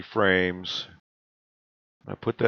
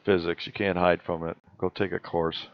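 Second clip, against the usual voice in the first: crunching chips. Real, not acted. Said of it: "Sorry if I'm crunching here".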